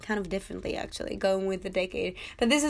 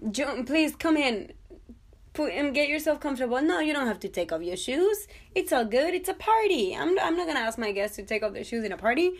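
higher-voiced, bubbly hostess greeting guests; gushing party host; 4 semitones higher, 3 dB louder than usual. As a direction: play the over-eager host at her own party.

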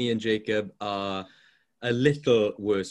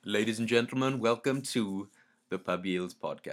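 hungover; 4 dB quieter than usual. Real, not acted. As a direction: drag through it, tired and hungover. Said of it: "Even that sound hungover".

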